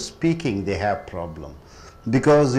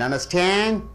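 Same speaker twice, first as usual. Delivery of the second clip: understand, higher, with STAND stressed; stress on last syllable; 4 semitones higher than usual. Shown as a demonstration. Teacher showing how a word becomes a verb, stress on last syllable. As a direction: lean on the final syllable of understand. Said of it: "When you stress on stand".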